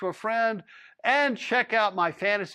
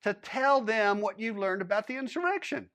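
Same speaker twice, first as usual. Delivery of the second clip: a higher, pressing official's voice; lightly voiced higher lawman interrogating a cowboy; stern lawman; 6 semitones higher than usual. A narrator's reading. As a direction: lean in like a lawman demanding answers.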